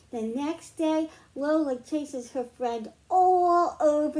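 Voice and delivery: lively picture-book read-aloud; reading to children. Acted. Teacher reads a picture book to the class, storytime voice. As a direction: read it like storytime for little ones.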